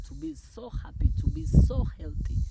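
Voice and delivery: high, loud, building delight; exultant rising cheer; elated. Real, not acted. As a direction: let the joy climb and swell. Exuberant affirmations build.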